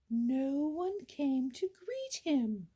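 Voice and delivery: hushed, breathy storyteller whisper. A narrator's reading. Narrator whispering to the listener, hushed whisper. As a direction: lean in and whisper the line.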